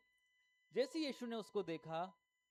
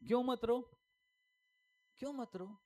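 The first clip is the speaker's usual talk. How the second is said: raised, louder rhetorical question; challenging question; 5 semitones higher, 4 dB louder than usual. Real, not acted. Preacher questions Jesus's words to the congregation, loud challenge. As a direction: throw the question out high and loud.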